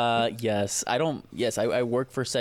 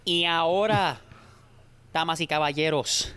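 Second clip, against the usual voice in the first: lucha libre announcer; 6 semitones higher than usual. Pretend. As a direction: announce it like a wrestling show. Mock ring announcer introduction.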